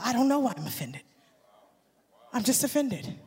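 sulky, low mumbling voice of an offended person; a hint of a sulky complainer; mock offended person. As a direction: play the grumpy offended one, mumbled. Mocking offended people, dialogue.

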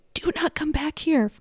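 a hint of a fed-up barista; mock stern barista. Barista telling the begging customer off, mock stern. Barista refusing beggar again.

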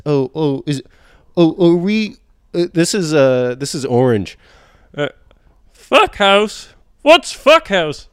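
put-on high, quavering old man voice. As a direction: croak it out like an ancient man. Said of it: "I forgot how to do an old man voice".

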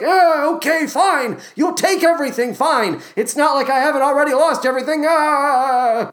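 high-pitched, exasperated mock surrender; Geronicus. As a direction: give in as a batty old man, wailing high. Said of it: "resigned to this fate to a certain degree".

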